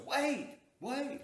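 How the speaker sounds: high, loud mock cries of wait; a friend hollering for them to wait, half-mocked high and loud; retold hollering. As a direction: call out wait, wait like a scared friend left behind. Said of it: "He kept hollering".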